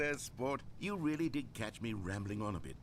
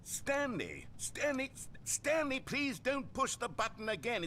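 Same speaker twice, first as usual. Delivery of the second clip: calling out; 10 semitones higher, slower than usual. Acted. Narrator calling frozen Stanley.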